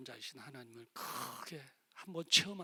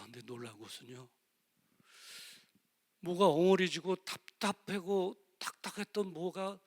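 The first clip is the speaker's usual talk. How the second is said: usual speaking voice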